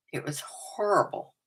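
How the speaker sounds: hushed, breathy confession of a disaster; whispered, half-laughing admission; whispered aside. Real, not acted. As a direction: drop to a whisper as if ashamed. Confessing awful bleached hair.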